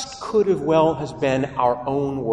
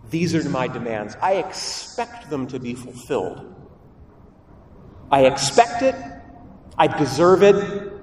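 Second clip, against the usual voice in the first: demanding believer; 4 semitones higher than usual. Acted. Preacher voicing our demanding prayers to God, entitled. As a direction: lay out demands to God like a customer. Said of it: "We say".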